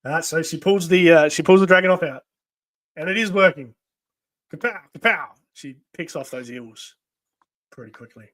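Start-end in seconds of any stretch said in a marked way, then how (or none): 4.5-5.3 punchy little "kapow" sound effect; spoken gunshot noises. Acted. Narrator imitating the sniper's shots, mock kapow. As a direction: mimic gunshots, a touch higher.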